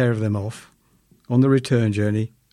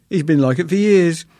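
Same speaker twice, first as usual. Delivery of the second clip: higher, louder indignant wife; a hint of an exasperated wife, raised and loud; mock indignant wife; 3 semitones higher, 5 dB louder than usual. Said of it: "she cried".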